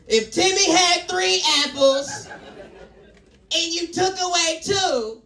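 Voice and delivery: high, mock Nigerian accent. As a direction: do a rough Nigerian schoolroom accent. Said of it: "like, Nigerian or some shit".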